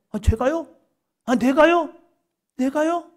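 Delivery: high, incredulous questions rising each time; can't believe it's him; astonished Peter. Acted. Peter astonished at being named. (놀라서 되묻는 베드로, 높고 믿기지 않는 말투)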